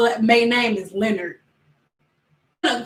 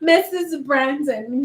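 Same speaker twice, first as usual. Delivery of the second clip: rich-sounding name; 2 semitones higher than usual. Shown as a demonstration. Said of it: "sound like she has money".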